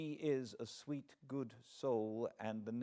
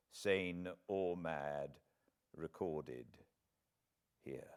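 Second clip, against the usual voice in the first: solemn; 3 semitones lower than usual. Retold or imitated. Sick husband solemnly hands his wife the notebook, grave and measured. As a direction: speak like a man entrusting a sacred secret. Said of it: "he said to me very solemnly".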